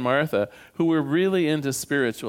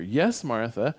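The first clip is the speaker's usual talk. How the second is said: a hint of a spirit answering from beyond; ghostly voice; 2 semitones higher than usual. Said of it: "a ghostly voice answered her".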